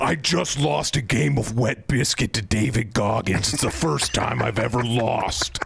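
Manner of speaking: Jesse Ventura impression. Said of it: "can you do an impression of Jesse Ventura?".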